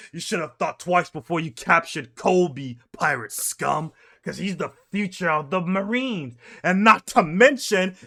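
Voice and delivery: lightly voiced heroic admiral; a hint of a proud admiral. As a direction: declare it like a war cry. Garp repeats threat to pirates.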